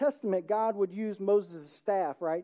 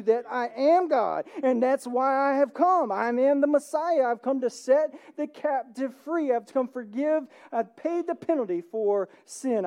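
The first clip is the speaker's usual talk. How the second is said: Jesus proclaiming; 4 semitones higher, 4 dB louder than usual. Acted. Jesus answers Pharisees.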